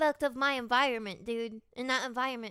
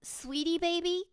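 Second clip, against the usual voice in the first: higher, slow, drawn-out endearment; her pet-name voice; 5 semitones higher, slower than usual. Retold or imitated. Calling everyone baby, a higher, slow drawn-out endearment. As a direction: stretch the pet name out up high. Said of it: "say a lot now".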